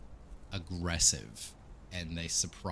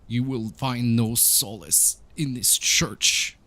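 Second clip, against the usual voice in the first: mourning priest; 5 semitones higher, 9 dB louder than usual. Acted. Crying priest warns approaching visitors of death, mournful and loud. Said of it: "he is crying".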